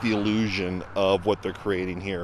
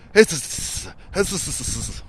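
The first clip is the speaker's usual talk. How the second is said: hissing "hiss, hiss" like a stage villain; 2 semitones higher, slower than usual. Retold or imitated. Reviewer mocking the villain's hissing, drawn-out hiss. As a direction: hiss each word out like a sneaky snake. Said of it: "villain has to hiss".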